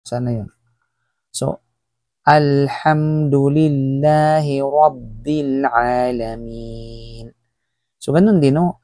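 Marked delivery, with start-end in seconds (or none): 2.3-7.3 slow, drawn-out tajweed chant; slow Quran recitation. Shown as a demonstration. Teacher recites the Fatiha slowly for students.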